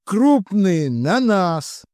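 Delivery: high, slow commanding shout; shouted orders. A narrator's reading. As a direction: yell it over the fight. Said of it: "крикнул я".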